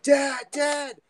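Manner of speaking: high, loud shout for Dad; retold scream for dad. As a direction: call out like a frightened kid screaming for help. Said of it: "I'm screaming for my dad".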